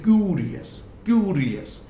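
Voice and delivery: क्यूरियस with the first syllable क्यू stretched; stress on क्यू. Shown as a demonstration. Teacher shows first-syllable stress, stressed syllable. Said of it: "थोड़ा loudly बोल सकते हैं".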